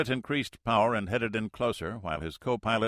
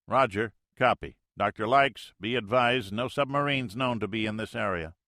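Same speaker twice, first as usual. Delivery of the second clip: radio pilot; 3 semitones higher, 4 dB louder than usual. Acted.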